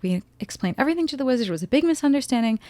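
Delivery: fast, high, frantic rush; frantic talking. Retold or imitated. Glinda pleading with Elphaba before the wizard, fast and frantic. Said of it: "talking frantically".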